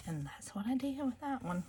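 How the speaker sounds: hushed confiding whisper; soft sheepish under-the-breath aside. Real, not acted. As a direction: tell them quietly as a secret. Confessing the repaired torn page.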